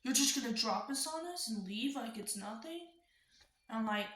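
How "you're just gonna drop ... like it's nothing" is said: angry dad. Retold or imitated. Dad confronting about moving out.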